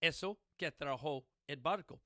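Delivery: Eso que trajo el barco said in Spanish; quoting the father's Spanish saying. Retold or imitated. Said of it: "In my house".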